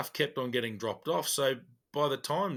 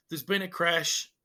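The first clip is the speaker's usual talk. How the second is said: animated; 3 semitones higher than usual. Retold or imitated. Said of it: "quite animated".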